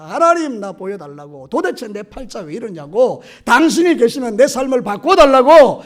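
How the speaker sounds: 높게 부르고 끝은 크게 외치기; 하나님께 떼쓰며 부르짖듯; 부르짖는 기도 흉내. Retold or imitated. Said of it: "막 소리를 지르는데". (소리 지르며 기도하는 흉내)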